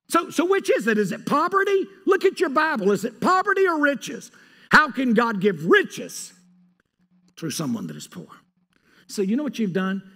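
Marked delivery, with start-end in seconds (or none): 0.1-8.3 much higher, louder challenge; loud, high-pitched preaching; fiery preaching. Real, not acted. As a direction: hammer the question at the church.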